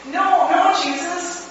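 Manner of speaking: high urgent plea; high desperate begging; pleading. A narrator's reading. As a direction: beg him to stop. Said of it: "I pleaded".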